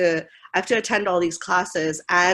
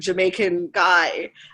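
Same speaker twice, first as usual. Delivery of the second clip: normal talking voice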